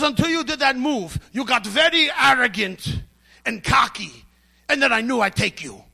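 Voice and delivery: lightly imitated Russian accent. Russian judoka telling his beaten opponent off, mock Russian accent. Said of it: "in his Russian accent".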